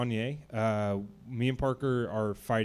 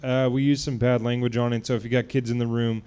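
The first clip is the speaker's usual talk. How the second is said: louder radio promo voice; monster truck ad; 5 dB louder than usual. Acted. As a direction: pitch it like a radio spot. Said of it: "I can go".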